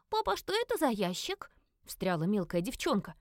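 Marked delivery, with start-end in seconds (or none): 0.1-1.5 put-on high child's voice; small girl interrupting, much higher; little girl voice. A narrator's reading. Little girl asking dad about the box, high child voice.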